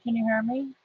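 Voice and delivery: muffled, like a hand over the mouth. Real, not acted. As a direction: talk through a covered mouth. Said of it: "you're kinda muffled".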